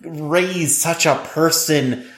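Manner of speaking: lightly voiced grumbling boomer, slowish. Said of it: "That's my boomer voice".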